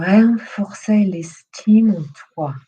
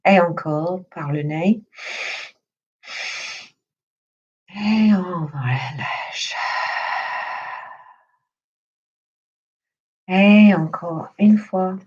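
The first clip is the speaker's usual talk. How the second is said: guided meditation. Acted. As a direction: lead them gently through breath and body, unhurried. Leads breathing and body relaxation.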